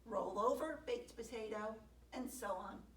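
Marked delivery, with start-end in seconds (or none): 0.0-1.8 commanding. Acted. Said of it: "or commanded".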